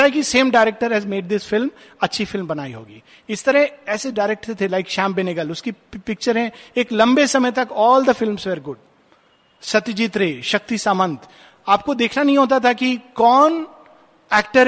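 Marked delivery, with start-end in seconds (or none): none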